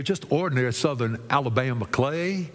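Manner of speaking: put-on Alabama Southern accent; lightly done Southern accent. Shown as a demonstration. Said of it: "can we do a Southern accent".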